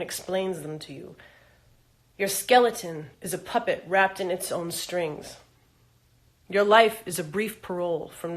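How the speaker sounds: deliberate spoken-word delivery; poem recital. Acted. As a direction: start each statement firmly, then let it fall away. Reads own poem aloud.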